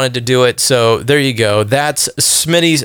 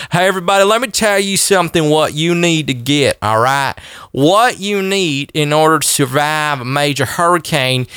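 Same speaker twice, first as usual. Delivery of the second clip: put-on Southern cracker accent; 2 semitones higher than usual. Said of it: "put on my cracker voice".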